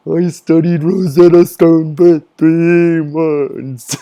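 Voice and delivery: slow, high, strained put-on voice; hammed-up nerd boast, drawn out; seething nerd impression. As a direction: imitate a seething anime fan, words stretched out. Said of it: "he's, like, seething".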